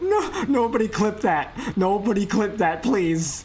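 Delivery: laughing pleading. Real, not acted. Streamer begging chat not to clip, laughing. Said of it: "I'm dying".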